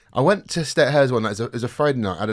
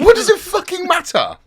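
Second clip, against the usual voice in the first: high, loud exasperated burst; first, louder take of the rant line; frustrated outburst; 8 dB louder than usual. Real, not acted. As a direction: throw the question at the air in frustration. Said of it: "I'm getting fucking frustrated".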